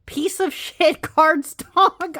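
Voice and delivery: high-pitched indignant rant, slow and emphatic; exasperated high complaint with a laugh; mad rant. Real, not acted. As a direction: vent real outrage at the cardstock. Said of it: "I'm so mad".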